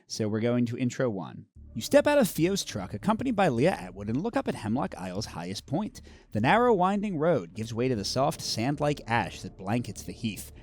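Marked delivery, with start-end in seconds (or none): 1.7-10.5 ominous storybook read-aloud; lightly dramatic narration of a creepy heath; story narration. A narrator's reading. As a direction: read the intro like a spooky tale. Reading the scenario flavor text.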